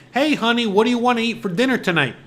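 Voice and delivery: lightly voiced sing-song wife; mock wife voice. Wife asking husband about dinner, high and sweet.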